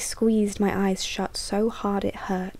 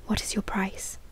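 whispered question; 5 dB quieter than usual. Acted. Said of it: "I whispered to the lurking dark".

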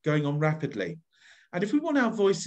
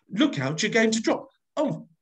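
alarmed burglar; 6 semitones higher, 3 dB louder than usual. Shown as a demonstration. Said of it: "two characters for this one".

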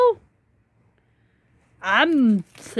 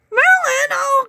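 dismayed call; 5 semitones higher than usual. Real, not acted. Pet licking her food.

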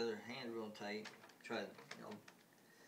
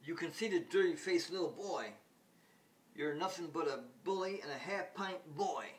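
higher and louder, scolding; indignant girl; 6 semitones higher, 5 dB louder than usual. Retold or imitated. Girl scolds the boastful alien boy, higher and louder. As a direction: tell off the bully with high indignation. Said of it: "Penny goes".

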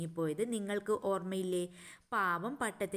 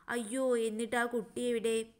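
higher, louder worried parrot; parrot alarmed; 4 semitones higher, 3 dB louder than usual. Acted. Parrot hears the kite's story, higher and alarmed. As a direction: gasp it out as the startled parrot. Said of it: "തത്തമ്മ".

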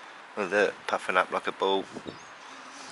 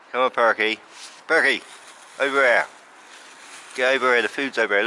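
loud, higher call across the garden; 4 semitones higher, 5 dB louder, faster than usual. Real, not acted. Calling the pigeon Perky over to the food, loud call. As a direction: call the bird over to you.

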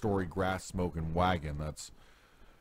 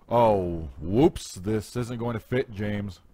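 raised-pitch story dialogue; acted "whoops" reaction; 3 semitones higher, 6 dB louder, slower than usual. Driver telling James it won't fit, mildly acted dismay. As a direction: let the whoops jump up, lightly acted.

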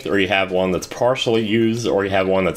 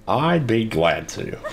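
fake polite; 3 semitones higher, slower than usual. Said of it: "not really, just trying to be nice".

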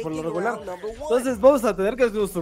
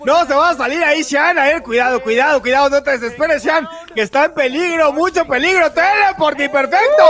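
fast, urgent calls as the match gets dangerous; tense commentary; 4 semitones higher, 6 dB louder than usual. Real, not acted. Watching a close match, calling it out fast and excited. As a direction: warn the player he's in danger.

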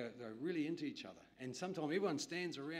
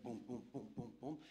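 heavy footsteps mimic; 4 dB quieter than usual. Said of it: "white man walk".

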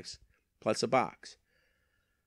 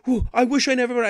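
high, loud, fast whiny mock wail; mocking a regretful buyer; 12 semitones higher, 6 dB louder, faster than usual. Seller mocking the buyer's regret, fast high whiny mock. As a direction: ham up her regret in a rush. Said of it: "And she's like".

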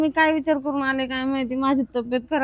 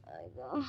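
pained groan; 13 semitones lower, 16 dB quieter, slower than usual. Acted. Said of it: "माझं डोकं बी मरणाचं दुखायलंय".

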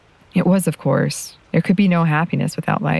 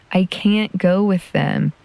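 put-on boy insisting; 4 semitones higher, slower than usual. A narrator's reading. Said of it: "he insisted".

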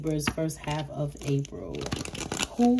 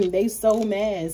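laughing; 2 semitones higher, slower than usual. Real, not acted. Laughing at the haters.

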